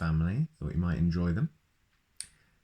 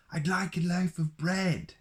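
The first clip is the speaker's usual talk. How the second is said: booming Mister Noisy; 12 semitones higher than usual. Acted. Mister Noisy orders bread from the baker, booming. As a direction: boom it out like a noisy giant. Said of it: "he boomed".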